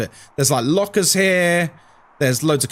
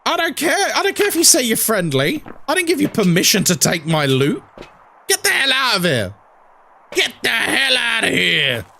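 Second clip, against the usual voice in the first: mock angry scolding; 4 semitones higher than usual. Streamer acting out refusing the looter permission, mock-angry high yelling. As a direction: tell off a looter, building to a mock shout.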